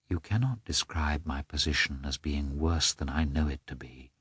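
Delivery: low, soft and defeated; softly. A narrator's reading. Wife answering her husband's harsh words softly. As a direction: let it fall almost to nothing. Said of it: "only said softly".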